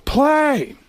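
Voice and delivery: hammed-up, drawn-out actor impression; mock-incredulous, slow and emphatic; Al Pacino. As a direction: savor each word with long, theatrical pauses. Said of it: "And he goes".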